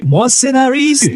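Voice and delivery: high, swelling self-proclamation; exultant boast. Acted. Screenwriter foresees writing marvels here, exultant boast. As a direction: crow over the wonders to come. Scénariste se voit triompher.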